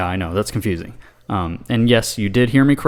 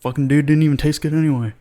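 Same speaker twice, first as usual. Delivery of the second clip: higher-pitched grudging comic monster; sulky monster; 6 semitones higher than usual. Acted. Monster retreating from the saint, sulky and higher-pitched. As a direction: concede like a huffy beast saving face. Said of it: "the monster is just like".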